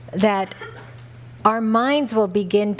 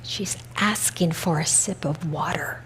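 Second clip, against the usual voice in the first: softly confided aside; hushed, discreet aside in someone's ear; retold whisper; 2 semitones lower, 5 dB quieter than usual. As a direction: lean in and explain it softly. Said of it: "he whispers in my ear".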